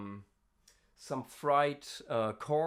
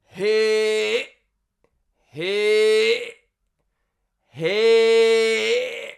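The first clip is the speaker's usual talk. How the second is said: fake fry; 4 semitones lower, much slower than usual. Shown as a demonstration. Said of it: "the most basic fry you can do".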